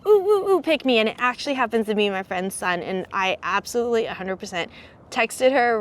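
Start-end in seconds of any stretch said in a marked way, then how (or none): 0.1-1.0 high, bright imitating an eager student begging to be picked; eager kid. Imitating third grader begging the teacher to pick him, high and eager. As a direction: squeal like a kid desperate for a turn. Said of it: "he's like".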